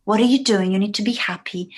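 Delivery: a hint of a pushy father urging his son; insistent dad. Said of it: "his dad always told him".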